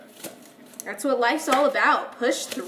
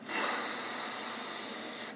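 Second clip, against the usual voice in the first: long sigh; 12 dB quieter than usual. Real, not acted. Onion making the speaker's eyes water.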